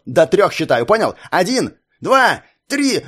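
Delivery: high, slow shouted count; furious countdown. Acted. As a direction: count it out like a threat. Бандит считает, угрожая ребёнку. (яростный отсчёт с криком)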